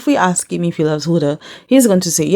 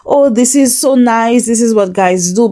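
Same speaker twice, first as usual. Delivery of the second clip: mock bragging; 5 semitones higher than usual. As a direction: imitate boastful guys, slightly lifted pitch. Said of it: "bragging about it and laughing about it".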